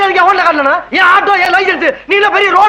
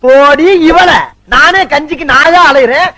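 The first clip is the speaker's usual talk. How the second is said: louder dismissive snap; irritated retort; 5 dB louder, slower than usual. Acted. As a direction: brush her off angrily. Husband snapping at wife. (மனைவியிடம் எரிச்சலான பதில், உரத்த குரல்)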